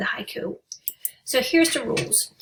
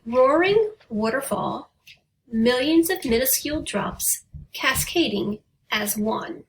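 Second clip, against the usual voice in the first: poem reading. Shown as a demonstration. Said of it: "here's an example".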